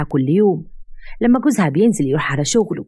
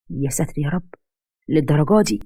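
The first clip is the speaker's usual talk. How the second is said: shocked. Acted. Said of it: "بصدمة كبيرة".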